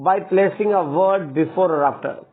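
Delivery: slow, word-by-word dictation of the rule; dictating a rule. Acted. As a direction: read it out slowly so students can copy. Reads rule aloud slowly. (धीरे-धीरे लिखवाते हुए नियम पढ़ना)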